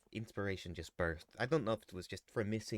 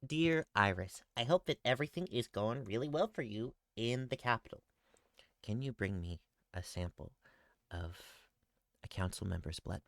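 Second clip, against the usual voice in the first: letter read in character. Acted. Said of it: "If you were to flip through any of the letters".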